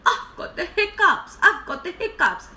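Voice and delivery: high, loud elephant character voice; complaining elephant. Acted. Elephant answers the lion's roar, loud complaint. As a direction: wail it loudly to the lion. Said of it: "The elephant said".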